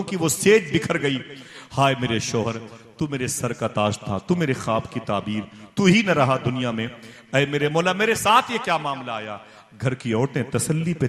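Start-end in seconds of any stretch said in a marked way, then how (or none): 1.7-9.4 rising, louder wail of a grieving widow; mournful lament. Retold or imitated. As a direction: cry it out to the heavens. (शौहर के ग़म में ऊँचा विलाप)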